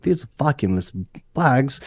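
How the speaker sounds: badly faked British commercial voice; British accent. Contestant mimicking the vacuum commercial guy, mock British accent. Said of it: "he had, like, a British accent".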